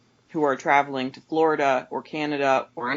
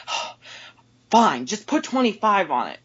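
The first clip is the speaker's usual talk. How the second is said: higher, exasperated giving in; imitated grudging agreement; 5 semitones higher, 3 dB louder than usual. Customer giving in to the cashier, imitated exasperation. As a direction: give in with a mock huff.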